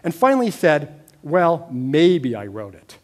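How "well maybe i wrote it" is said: slow, unbothered, lightly imitated dad; calm collected. Dad answering his angry son, slow and calm. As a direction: keep it slow and even, refusing to rise to the bait. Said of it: "respond in this sort of calm, collected voice".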